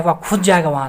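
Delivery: firm stress on खुद, mildly done; emphatic stress. Shown as a demonstration. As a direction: put mock-angry weight on खुद. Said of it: "गुस्सा के बोलेगा".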